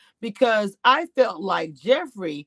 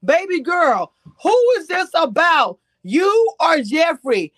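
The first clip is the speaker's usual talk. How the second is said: retold confused question; 7 semitones higher, 4 dB louder, slower than usual. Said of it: "I'm in the chat going like this".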